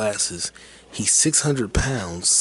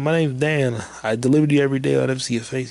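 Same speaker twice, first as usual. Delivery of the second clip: higher, raised imitated introduction; louder, pitched-up doorstep voice; calling out; 5 semitones higher, 5 dB louder, faster than usual. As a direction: call it out as a retold courier. Courier introducing self to unseen customer.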